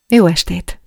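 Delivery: a hint of calm, tinkling brightness on "Jó". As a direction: answer composed and light, hiding excitement. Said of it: "mondtam higgadtan, csilingelő hangon". (higgadtan, csilingelő hangon)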